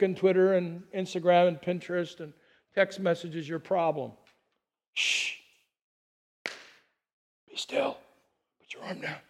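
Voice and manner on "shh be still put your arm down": soft, hushed, soothing; hushed calm. Shown as a demonstration. Pastor hushing anxious listeners, soft and soothing. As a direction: hush them gently to stillness. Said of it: "means to put your arms down".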